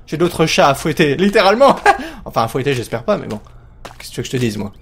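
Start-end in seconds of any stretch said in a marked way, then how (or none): none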